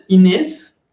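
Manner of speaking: "Inés" said as the French "Agnès". Shown as a demonstration. Teacher telling students how to say the name, French. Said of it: "así es que se dice Inés".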